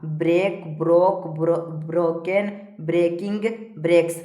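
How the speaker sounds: evenly spaced word-by-word list; steady classroom drill; verb drill recitation. Shown as a demonstration. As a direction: recite each form separately for pupils to memorise. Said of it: "इस प्रकार से सारा को पढ़ते जाना है".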